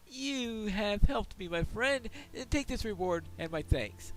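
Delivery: loud, hearty dwarf prospector. Acted. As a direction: boom it out like a proud dwarf. Voices the dwarf quest giver.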